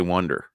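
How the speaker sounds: "wonder" with the "won" vowel, like WUN-der; imitating his pronunciation. Teasing cohost's accent, imitating his vowel. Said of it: "Matt says".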